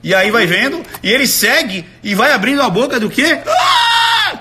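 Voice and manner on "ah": sudden high yelp of shock; hammed-up gasp-scream; mock surprised scream. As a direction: shriek it out like someone caught off guard. Imitating the crowd's surprise.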